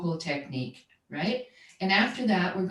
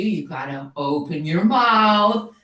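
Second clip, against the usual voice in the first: firm coach command; 5 dB louder than usual. Retold or imitated. Coach quoting her instruction to student.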